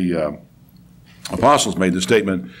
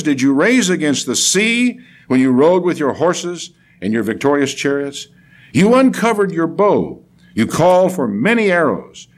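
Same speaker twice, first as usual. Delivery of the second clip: emphatic questions, then stately proclamation; dramatic scripture reading; 3 semitones higher than usual. Acted. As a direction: put the prophet's questions to God with force. Reads scripture aloud.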